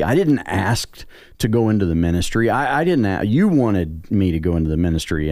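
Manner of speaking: mild mock scream at God, pitch jumping on the repeats; indignant complaint, swooping up on "didn't ask"; retold angry protest. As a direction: retell a fit of anger without really yelling. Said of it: "I got mad and I screamed and I said".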